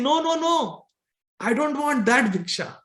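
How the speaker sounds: lightly voiced Nityananda turning down the gifts; refusing beggar. Nityananda refusing money at the doorstep, insistent.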